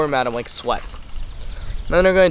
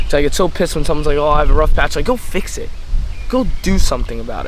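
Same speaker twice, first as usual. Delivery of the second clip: pissed off; 3 dB louder than usual. Real, not acted. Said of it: "I get so pissed off thinking about this".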